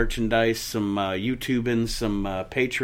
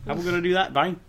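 high-pitched, quick cartoon sidekick voice; Pinky; 12 semitones higher, 3 dB louder, faster than usual. Sidekick asks his partner about world domination, high cartoon voice. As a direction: pipe up as an eager cartoon sidekick.

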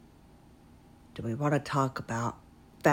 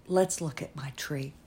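whispering; 5 dB quieter than usual. Real, not acted. Shares her tree softly.

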